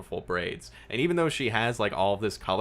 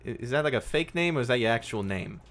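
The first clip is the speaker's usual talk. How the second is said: lightly voiced, halting and higher at first; awkward young woman; 5 semitones higher, 4 dB louder than usual. Young woman questions detective's odd name, awkward. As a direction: stumble curiously, then ask for help.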